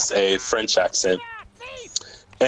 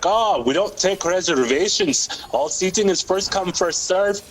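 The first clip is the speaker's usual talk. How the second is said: higher-pitched mock Irish lilt; Irish accent; 7 semitones higher than usual. Worker explaining reservations to a caller, put-on Irish accent. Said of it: "do an Irish accent".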